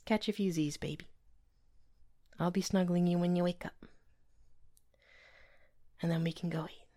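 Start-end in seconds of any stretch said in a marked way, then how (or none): 2.4-6.9 whispering. Acted. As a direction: hush it like a partner in bed. Whispering in bed.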